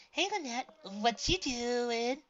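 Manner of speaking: friendly call. A narrator's reading. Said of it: "a voice surprised her".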